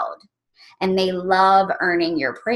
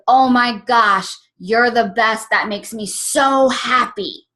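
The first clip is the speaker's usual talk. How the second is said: happy surprise; 2 semitones higher, slower than usual. Retold or imitated. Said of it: "that happy surprise".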